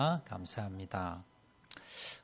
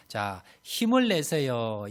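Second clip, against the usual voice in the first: cheering greeting; 4 dB louder, slower than usual. Shown as a demonstration. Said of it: "인사하는데 처음에".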